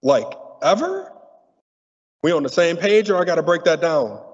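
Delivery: mock incredulous. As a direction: act out asking the priest in shocked disbelief. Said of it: "It's like".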